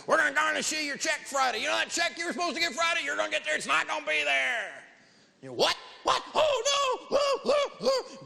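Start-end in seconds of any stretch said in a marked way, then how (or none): 0.1-4.8 much higher, taunting collector voice; mock bill collector. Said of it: "They'll get you on the phone, the credit card collector". 5.5-8.2 squeaky, much higher panicked yelps; mock panic. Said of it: "they're just going bananas".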